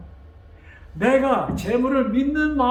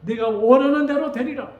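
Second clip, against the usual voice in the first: God's answer; 4 semitones higher, 5 dB louder than usual. Acted. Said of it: "하나님께서 뭐라 그래요".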